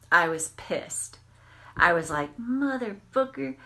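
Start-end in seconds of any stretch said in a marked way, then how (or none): 2.4-3.6 higher angry swear, spat out at the other driver; cursing the car that nearly hit her; retold angry curse. Cut off in traffic, she swears at the driver in anger.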